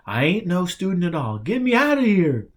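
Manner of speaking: rising into a high, loud panicked cry; sinking in dirt, yelling for help; panicked plea. Acted. Stuck underground, begging to get out.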